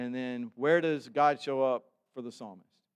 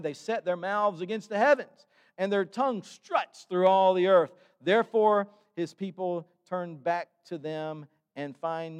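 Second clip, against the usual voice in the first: impassioned scripture reading; 4 dB louder than usual. Acted. Pastor proclaiming the psalm to the congregation, impassioned reading. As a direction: preach the verses with fire.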